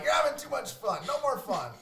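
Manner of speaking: stern fun police. Retold or imitated. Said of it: "I'm like".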